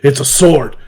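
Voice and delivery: lightly imitated deadpan answer; a hint of stoic monotone; monotone stoic slayer. Goblin Slayer toy answering little girl, understated monotone imitation. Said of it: "monotoned and stoic".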